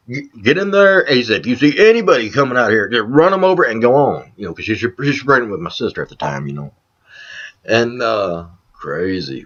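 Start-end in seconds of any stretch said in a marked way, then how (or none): 0.1-4.3 loud, raised-pitch command; forceful retelling of a getaway order; urgent retold orders. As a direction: act out ordering someone to flee.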